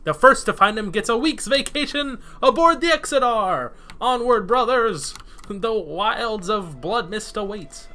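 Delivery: rally the brothers, dark and grand; sinister voice. Acted. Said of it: "such a sinister voice".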